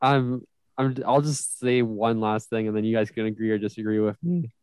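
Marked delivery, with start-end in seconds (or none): 1.1-4.5 voice crack. Real, not acted. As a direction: voice cracking mid-sentence. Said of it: "that voice crack was insane".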